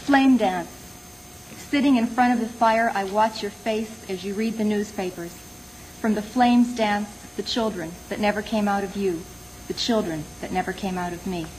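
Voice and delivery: measured poem recital with pauses between phrases; poetry reading. Acted. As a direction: read it as a poem, letting each line fall. Reads own poem aloud.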